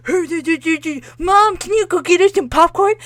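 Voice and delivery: mock a nagging kid asking Mom; lightly voiced bratty child; whiny kid. Mocking family kid voice.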